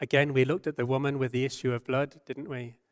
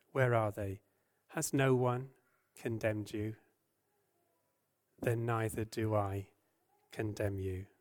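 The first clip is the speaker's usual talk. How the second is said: gentle; 2 semitones lower than usual. Acted. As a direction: speak tenderly, letting it sink to a whisper. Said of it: "How he spoke so gently to her".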